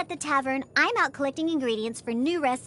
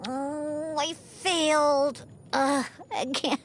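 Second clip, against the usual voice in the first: slow, drawn-out moan of defeat; dejected; much slower than usual. Acted. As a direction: groan it out, crushed by another failure. Laments her failed bad drink.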